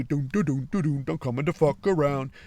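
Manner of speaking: imitated running chant. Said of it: "doing that little loping run".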